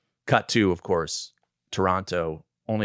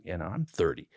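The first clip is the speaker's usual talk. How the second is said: much softer, private plea; quiet aside; 8 dB quieter than usual. Retold or imitated. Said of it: "I had to pull him aside".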